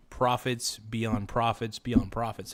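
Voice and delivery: ordinary delivery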